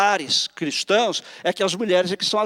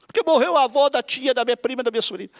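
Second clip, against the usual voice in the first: high-pitched weepy explanation, hammed up; mock tearful; 5 semitones higher, faster than usual. Preacher as wife mourning distant relative, mock tearful. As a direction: keep up the pretend crying voice. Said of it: "eu tô muito triste".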